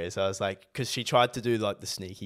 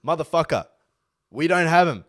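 annoyed retort; 5 semitones higher, 7 dB louder than usual. Retold or imitated. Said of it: "I'm like".

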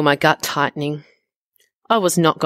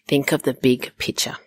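whispered mantra. Acted. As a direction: whisper it to yourself. Mantra to herself.

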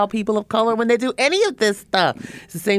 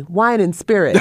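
laughing quote; 2 semitones higher, 3 dB louder, slower than usual. Retold or imitated. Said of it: "learned after years in Pennsylvania to say".

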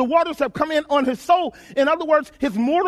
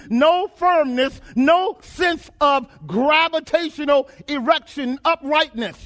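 pitched-up, insistent preaching; impassioned preaching; 3 semitones higher than usual. Real, not acted. Preacher paints being tossed in water, high and urgent. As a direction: hammer out each phrase of the tumbling. Preacher dramatizes tumbling out of control.

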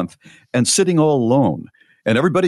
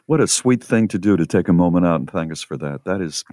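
consoling a listener who lost her dad; sincere sympathy; 5 semitones lower than usual. Real, not acted. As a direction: soften for a grieving listener. Responding to bereaved listener.

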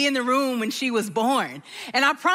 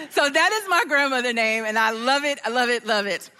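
ordinary talk, nothing marked

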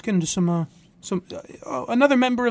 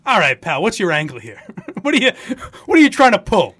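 suspicious. Retold or imitated. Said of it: "as if to say".

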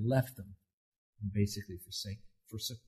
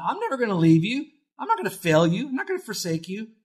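higher, louder fervent proclamation of God's promise; fervent preaching; 9 semitones higher, 3 dB louder than usual. Acted. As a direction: proclaim it with rising fire.

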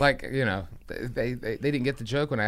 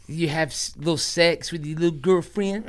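teasing mock condescension; belittling; 2 semitones higher than usual. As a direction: ask as if it were a cute little hobby. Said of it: "Such a belittling thing".

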